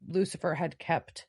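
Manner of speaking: ordinary talk, nothing marked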